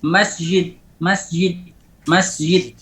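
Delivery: "Masjid" with j sliding toward y; jim like ya. Shown as a demonstration. Teacher shows the weakened jim, y-like sound. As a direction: soften the j in "masjid" almost to a y. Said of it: "mirip seperti ya".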